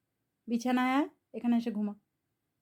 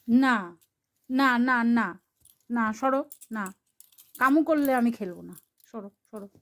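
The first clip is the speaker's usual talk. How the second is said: firm scolding; 5 dB louder than usual. Real, not acted. Scolding the pet for biting.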